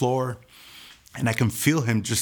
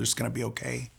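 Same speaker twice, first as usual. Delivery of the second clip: gently comforting, softer; soft reassurance; 6 dB quieter, faster than usual. Retold or imitated. Holding the wounded lady's hand, calming her softly. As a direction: quietly reassure her it will be fine.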